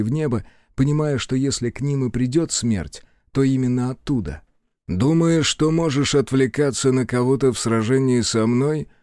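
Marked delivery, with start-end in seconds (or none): 4.9-8.9 taunting. Acted. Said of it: "бросил Азар".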